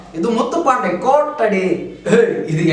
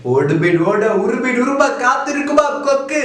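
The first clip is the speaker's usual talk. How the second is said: mock punch dialogue; 6 semitones higher than usual.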